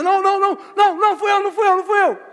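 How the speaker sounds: loud, high blurted protest; startled cries of innocence, piled up loudly; knee-jerk denial. Acted. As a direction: deny it instantly, in a mock panic. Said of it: "Na hora do supetão".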